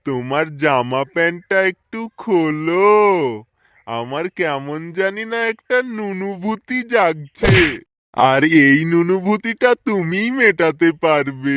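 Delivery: put-on ooze menace slowly at the child; creepy leering. Villain leering at little girl. (ধীর নিচু কুৎসিত লোভী স্বর)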